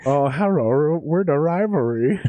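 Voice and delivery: lightly put-on mock Asian accent, sing-song; a hint of a jokey Asian accent voice. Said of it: "a racist Asian impression".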